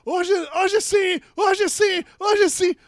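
shouted, rising race-announcer call; Formula One commentary. Retold or imitated. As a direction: yell it like the winning lap. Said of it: "aquela narração da Fórmula um".

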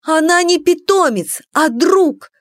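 high, indignant outcry; crying out. A narrator's reading. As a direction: cry out in protest through tears. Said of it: "выкрикнула я". (выкрик, высоко и возмущённо)

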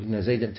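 زيدا with a fatha ending, "Zaydan"; accusative ending. Shown as a demonstration. Teacher telling the student how to say it, accusative زيدا as "Zaydan". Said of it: "بالنصب".

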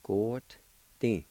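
Good, Di in two separated syllables; teacher modelling Good with its D nearly a T; careful pronunciation. Shown as a demonstration. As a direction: say Good, pause, then short Di. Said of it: "let me pronounce it one more time".

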